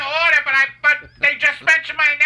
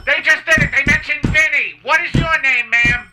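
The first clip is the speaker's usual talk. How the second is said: excited fan; 3 semitones higher than usual. Acted.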